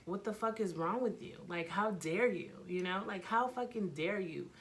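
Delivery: indignant retold telling-off, pitch jumping up; acting out an outraged confrontation; heated words. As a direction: lay into a rival, stretching out the final insult. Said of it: "we had words".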